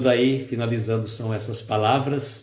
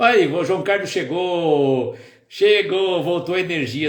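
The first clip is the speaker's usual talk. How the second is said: excited greeting; 5 semitones higher than usual. Real, not acted. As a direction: cheer as a friend finally arrives. Friend rejoins the live stream.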